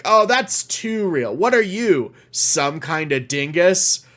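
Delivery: mocking dismissive quote. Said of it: "it has to be like".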